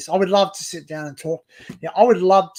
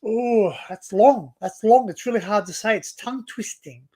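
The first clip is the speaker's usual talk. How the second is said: lightly voiced fussy reaction, higher at first; complaining listeners; 3 semitones higher than usual. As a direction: mimic people balking at a mouthful. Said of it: "they're like".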